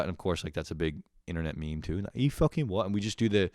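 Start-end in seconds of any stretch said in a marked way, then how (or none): 2.1-2.8 higher-pitched mock Cockney; Cockney accent. Frat homies copying an internet meme, mock Cockney. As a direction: toss it out in playful Cockney. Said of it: "the Cockney accent".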